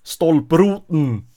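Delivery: slow, loud "stolproten" with the last E cut out; northern dropped vowel. Shown as a demonstration. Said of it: "don't even pronounce the last E".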